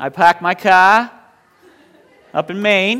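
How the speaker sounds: loud, slow, drawn-out Maine accent. Telling an audience you grew up in southern maine, maine accent. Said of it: "that's a little Maine speech for you".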